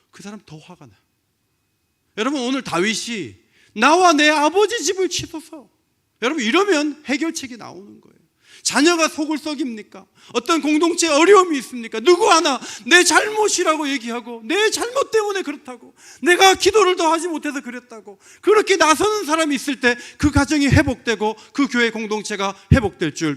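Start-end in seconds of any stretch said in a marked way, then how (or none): 2.2-3.4 loud, high preaching call. Real, not acted. 3.7-5.7 loud, high cry of prayer; 외치는 간구. Acted. Preacher voices David's plea. 6.2-23.4 high, loud preaching at full force; 열정적인 설교. Real, not acted.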